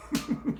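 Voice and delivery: short, high chuckle; quick high-pitched giggle; chuckling. Real, not acted. Streamer amused at handing Marty jars of change, chuckling.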